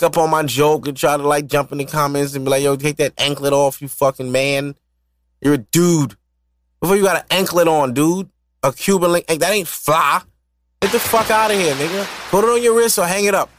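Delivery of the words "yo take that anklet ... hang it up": mocking commenter. Commenters scolding him, mock voice.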